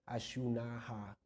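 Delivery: ashunaha spoken slowly, syllable by syllable; slow word demo. Shown as a demonstration. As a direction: spell out ashunaha slowly and carefully. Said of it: "las vocales dobles suenan más largas". (ashunaha dicho despacio, sílaba por sílaba)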